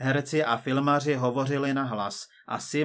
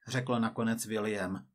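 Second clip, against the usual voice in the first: plain reading voice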